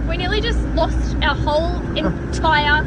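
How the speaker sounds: high-pitched incredulous rant; rattled, half laughing at the scare; rattled disbelief. Real, not acted.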